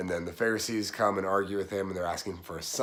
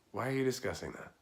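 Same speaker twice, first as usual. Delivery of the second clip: mock exasperated; 6 dB quieter, faster than usual. Shown as a demonstration. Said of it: "And this is the face yet".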